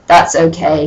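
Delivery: understated sad mumble; mock depressed. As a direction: say it a touch dejected. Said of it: "he said, all depressed".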